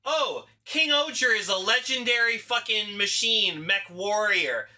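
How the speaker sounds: self-important mock boasting; up their own asses. Mimicking the team naming itself, pompous. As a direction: puff yourself up grandly. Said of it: "up their own asses they are".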